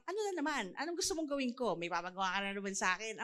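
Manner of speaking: fast, muttered complaint; child grumbling at a parent, fast and put-out; grumbling reluctant child. Retold or imitated. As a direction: grumble like a kid asked to do chores again.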